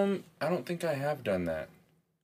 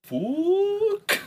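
much higher, loud questioning curse in mock Russian accent; Russian fuck; 6 dB louder than usual. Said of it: "That wasn't a Russian fuck".

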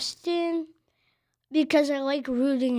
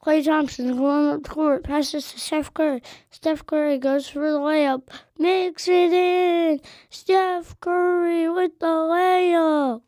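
louder, higher basketball announcer call, slowing at the end; play-by-play announcer; 4 semitones higher, 5 dB louder than usual. Acted. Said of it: "'Cause I have a good voice like this".

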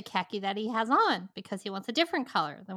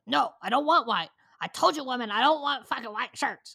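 angry customer; 4 semitones higher, 3 dB louder than usual. Retold or imitated. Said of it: "And he goes".

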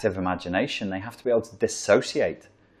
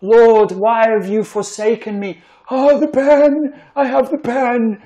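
put-on very high, slow begging baby voice; mock baby pleading to God; 12 semitones higher, 6 dB louder than usual. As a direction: plead up to God like a helpless infant. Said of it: "to the sad baby, that's God".

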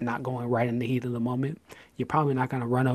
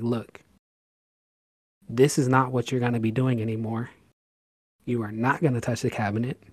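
louder, stern parent command; firm parent order; 4 dB louder than usual. Retold or imitated. Parent sternly ordering child away from the cabinet. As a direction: lay down the law to the kid. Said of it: "be like".

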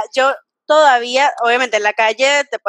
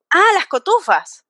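higher, drawn-out retold exclamation; eager interjection; 6 semitones higher than usual. Speaker retelling how she butted into an office chat, eager interjection. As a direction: chime in eagerly, stretching the words.

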